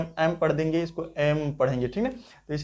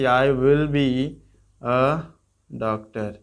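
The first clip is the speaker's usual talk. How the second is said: slow model sentence; 3 semitones lower, much slower than usual. Shown as a demonstration. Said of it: "इस तरह भी कर सकते हैं".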